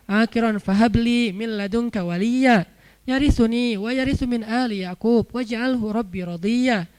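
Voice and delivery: slow, measured recitation; Quranic recitation. Acted. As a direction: recite the prayer with drawn-out syllables. Continues reciting the prayer.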